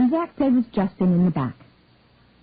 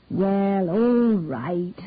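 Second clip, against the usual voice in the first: happily; much slower than usual. Acted. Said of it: "she said happily".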